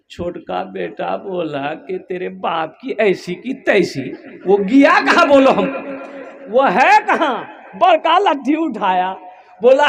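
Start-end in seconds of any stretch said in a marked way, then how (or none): 2.0-7.3 furious son. Acted. Youngest son furious at father.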